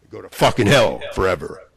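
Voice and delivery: renewed furious shout at his enemies; angry yelling. Real, not acted. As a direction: bark the curse out again. Rant flares up again.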